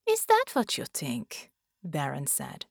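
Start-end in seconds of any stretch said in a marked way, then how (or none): 0.1-1.5 cold alien commander. A narrator's reading. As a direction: toy with her, bored and cruel. Baron's voice.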